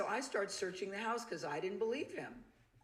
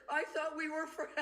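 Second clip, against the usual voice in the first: higher, pleading "I thought we were friends"; pitiful plea; 9 semitones higher than usual. Retold or imitated. Wife confronting her friend, pitiful and pleading. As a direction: sound wounded and small. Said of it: "It sounded so pitiful".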